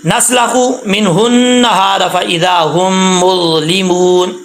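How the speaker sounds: slow, measured Quranic recitation. Shown as a demonstration. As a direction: recite the line slowly, word by word. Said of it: "next line पे". (धीमी तिलावत)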